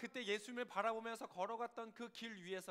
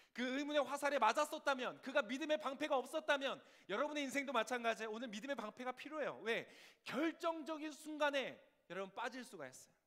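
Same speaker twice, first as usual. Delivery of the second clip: loud, raised, urgent exhortation; full-force preaching; 6 semitones higher, 8 dB louder than usual. Real, not acted. Preacher warns congregation they need faith's shield, forceful preaching. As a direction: drive the warning home to the congregation.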